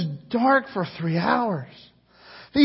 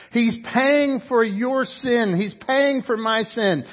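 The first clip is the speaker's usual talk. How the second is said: slow, weighty, every word set apart; slow emphasis; 3 semitones higher than usual. Acted. Preacher tells the church Jesus pays, slow and weighty. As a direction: let it land slowly. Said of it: "is hanging on the cross".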